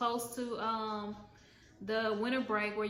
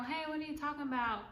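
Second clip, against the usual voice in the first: a lightly raised, quick, sweet innocent voice; softer replay of the innocent denial; lighter sweet roommate; 4 semitones higher, 4 dB quieter, faster than usual. Retold or imitated. Roommate repeating her denial, lighter sweet innocent voice. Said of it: "she was a sweet girl".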